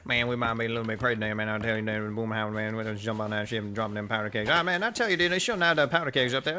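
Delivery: channel Boomhauer, loose and rambling Southern; country accent. Pretend. Friends joking on voice chat, slipping into a Southern country accent. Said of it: "I did not mean to do the country accent there".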